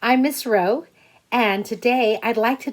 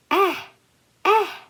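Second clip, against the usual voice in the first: put-on high, wailing baby cry; 11 semitones higher than usual. Baby A crying for pie.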